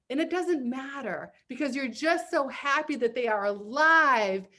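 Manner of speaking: animated read-aloud with big emphasis; hammy, expressive storytelling; dramatic comic reading. Acted. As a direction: perform a silly story for an audience. Reads the finished Glad Lib.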